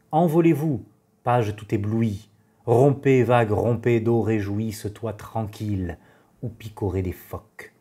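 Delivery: declaimed verse, phrase by phrase; poetry recitation. Acted. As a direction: recite with weight on each opening, settling at line ends. Reads Valéry's verses aloud.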